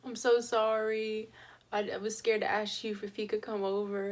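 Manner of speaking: pleading through tears with mom, mildly voiced; retold crying. Daughter begging her mom's forgiveness, retold crying. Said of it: "I just started crying".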